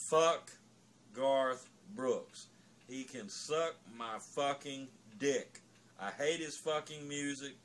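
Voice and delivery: loud, cursing tirade; angry rant. Real, not acted. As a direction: let the contempt pour out. A swearing rant against a country singer.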